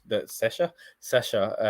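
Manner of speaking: "Sesha" said with a light Kiwi vowel, New Zealand style; "the Sesha, Sesha" slipping into a light Kiwi accent; slip into Kiwi accent. Real, not acted. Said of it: "kind of put on my own Kiwi accent there".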